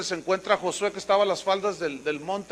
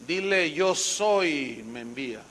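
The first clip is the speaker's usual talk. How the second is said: solemn answer; 4 semitones lower than usual. Acted. God answering Moses solemnly.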